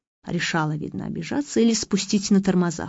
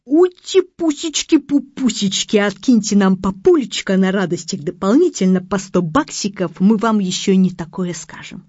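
cooing midwives; 4 dB louder than usual. Retold or imitated. Midwives coax the father for extra dollars, cooing. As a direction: coo sweetly to coax a tip.

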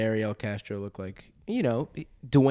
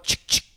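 imitated shotgun pump; gun cocking. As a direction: mouth click of a shotgun cocking. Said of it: "You didn't see me cock my shotgun?".

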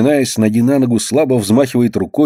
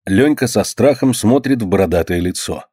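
usual speaking voice

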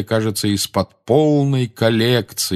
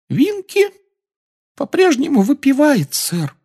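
very high elf voice, sorrowful; a tiny elf saddened; sad squeaky elf; 5 dB louder than usual. Acted. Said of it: "печально ответствовал эльф".

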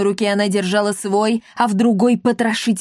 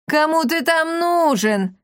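mocking laugh; 8 semitones higher, slower than usual. A narrator's reading. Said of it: "расхохоталась она".

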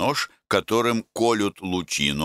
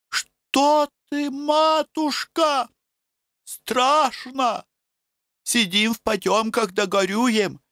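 frightened village women; 11 semitones higher than usual. Acted. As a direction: cry it out like scared peasant women.

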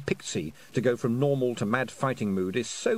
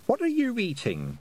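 lightly voiced girl; 11 semitones higher than usual. A narrator's reading. Tiffany questions the toad.

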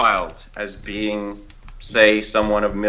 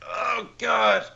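mock moan; 12 semitones higher than usual. Mimicking exclamation in bed.

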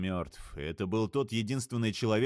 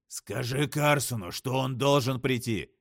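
крик в трубку; 3 semitones higher, 3 dB louder, slower than usual. Acted. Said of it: "крикнул Дал в трубку".

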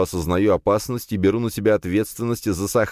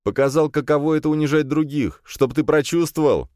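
higher, cutting comeback; a pointed, biting answer; sharp retort; 10 semitones higher than usual. A narrator's reading. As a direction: hit back hard at him. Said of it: "резко ответил я".

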